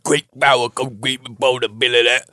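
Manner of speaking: lightly voiced Aussie uncle; Australian accent. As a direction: say it with a faint Aussie lilt. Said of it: "But in Australian accent".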